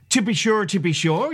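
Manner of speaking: put-on light jokey Irish accent; a hint of put-on Irish. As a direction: toss it off as stock stage Irish.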